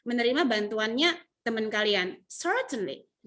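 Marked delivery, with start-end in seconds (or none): 2.3-3.3 pleased certainly. Shown as a demonstration. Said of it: "nadanya itu yang menentukan".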